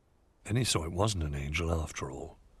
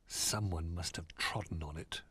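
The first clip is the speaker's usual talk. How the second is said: sad; 2 semitones lower, 8 dB quieter than usual. A narrator's reading. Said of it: "he thought sadly".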